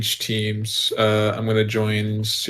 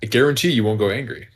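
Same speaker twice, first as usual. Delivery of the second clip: put-on Australian accent. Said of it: "your version of the, uh, uh, Australian accent?".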